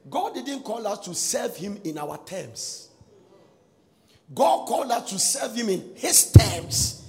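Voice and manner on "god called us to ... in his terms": loud, slow, emphatic; preaching climax. Real, not acted. Preacher driving home his point to the church. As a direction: hammer each word out slowly.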